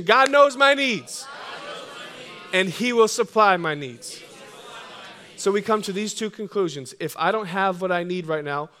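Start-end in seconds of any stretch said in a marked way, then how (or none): 0.0-4.2 with more passion. Shown as a demonstration. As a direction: push it out with full passion. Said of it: "say it with more passion, more conviction".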